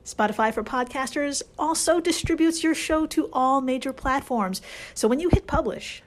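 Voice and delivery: upbeat sponsor read. Acted. Host reading a sponsor spot, upbeat ad read. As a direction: pitch the app with enthusiasm.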